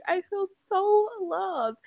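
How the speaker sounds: high, slow sarcastic gushing; playfully ironic gratitude; mock touched. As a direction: drawl it like a fake sentimental thank you. Retold sarcastic reaction to dog.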